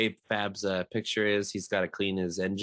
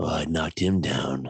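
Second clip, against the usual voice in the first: low, slow, unhurried coffeehouse mic voice; 4 semitones lower, 4 dB louder than usual. Retelling a match where a player on the mic sounded like Blackbeard's coffee hour: imitating Blackbeard's coffee hour voice. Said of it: "sounded just like Blackbeard's, like, coffee house hour".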